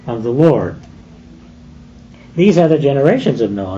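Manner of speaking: measured, solemn Bible reading; scripture reading. Acted. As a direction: read God's words with gravity. Reads Genesis six aloud.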